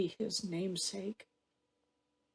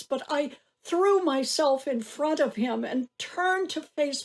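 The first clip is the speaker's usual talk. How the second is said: raised, urgent voice of a mother; distressed recounting; 3 semitones higher than usual. Acted. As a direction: relive the panic and the pleading. Mother relives arrest and plea.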